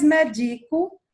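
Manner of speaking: médico said slowly as meDIco, middle syllable stressed. Shown as a demonstration. Teacher contrasting the paroxytone, médico stressed on DI. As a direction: move the weight of médico onto DI. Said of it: "é, paroxítona".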